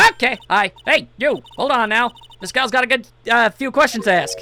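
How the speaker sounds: friendly southern gal calling out; hint of a Southern US accent. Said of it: "I'm sure I've heard that southern accent".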